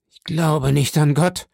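dying Caderousse howls his disbelief; howling denial. A narrator's reading. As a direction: wail it in defiance. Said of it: "heulte Caderousse".

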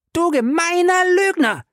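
sehr hoch und lauter geschrien; wütender Ausbruch. A narrator's reading. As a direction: schleudert ihm das Wort entgegen. Fay beschimpft ihren Mann. (Fay schreit ihren Mann an)

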